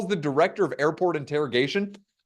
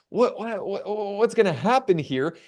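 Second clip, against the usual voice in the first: mock-nervous, stuttering start; retold nervous stammer; 4 semitones higher than usual. Sweating traveler being searched, acted nervous stammer. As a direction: stumble over the first word as if panicking. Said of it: "when you're nervous".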